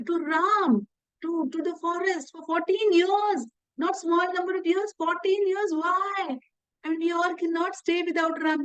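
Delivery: high, pleading questions from a distraught king; a distraught king pleads with his wife over Ram's exile. Retold or imitated. Dashrath pleads with Kaikeyi.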